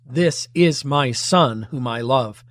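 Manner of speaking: "This" set apart and emphasised; slow, measured line leaning on "This"; stress on THIS. Acted. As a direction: put the emphasis on the first word, "This". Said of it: "The emphasis is on the this".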